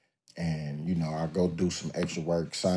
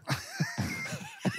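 a squeal of laughter, much higher; shrieking laugh; 8 dB quieter than usual. Real, not acted. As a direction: burst into a high cackle. Cracks up mid-quote.

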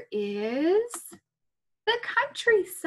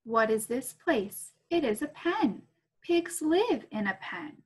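put-on reading to children. Reading picture book aloud.

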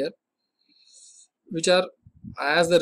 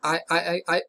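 stammering. Shown as a demonstration. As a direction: repeat the first I three to four times, then finish. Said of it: "he repeats the first syllable three to four times".

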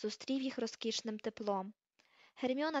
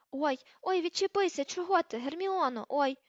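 higher, yelping protest under blows; 5 semitones higher, 3 dB louder than usual. Acted. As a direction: cry out as you're being pummelled. Ron being pummelled with fists.

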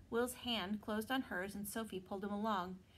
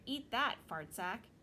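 rude pixie. Acted. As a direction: spit out a cocky taunt. Pixie insults Sophie.

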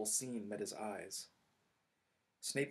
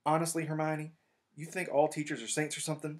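higher and louder, mocking disbelief; exasperated Ron; 6 semitones higher, 6 dB louder than usual. Ron scoffing at Hermione's trust in teachers, exasperated. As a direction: scoff at her naivety. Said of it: "said Ron".

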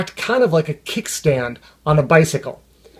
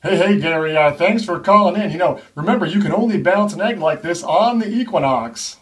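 smooth radio host. Acted. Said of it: "those very same on-air personalities".

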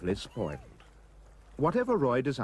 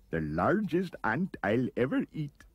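higher-pitched creature voice, mouth busy chewing; murmuring while chewing; 4 semitones higher than usual. A narrator's reading. Anteater chews the aunt's feet, murmuring. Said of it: "murmuring as it chewed the feet".

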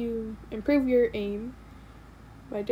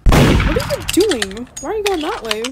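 incredulous; 6 semitones higher, 9 dB louder than usual. Real, not acted. Confused at murderer.

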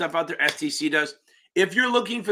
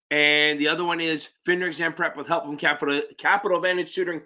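stuttering. Real, not acted. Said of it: "I'm stuttering my ass off".

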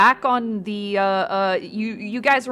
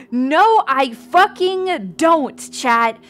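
exasperated, raised-voice denial; indignant denial; 3 semitones higher, 6 dB louder, slower than usual. Real, not acted. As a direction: push back loudly at the teasing chat. Indignantly denies chat's accusation.

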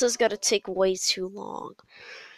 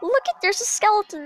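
excited realisation; 10 semitones higher, 5 dB louder than usual. Real, not acted. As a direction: blurt it out as the boss appears. Spots boss he recognises.

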